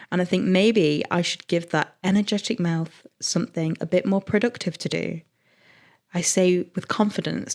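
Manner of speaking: subdued, even narration; book reading aloud. A narrator's reading. Resuming a steamy passage for the co-host, low measured narration.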